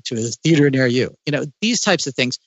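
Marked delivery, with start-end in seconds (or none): 0.1-1.2 lightly voiced trailer tagline; slightly lowered mock trailer voice; a touch of movie announcer. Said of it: "certain movie voice actors come on and say".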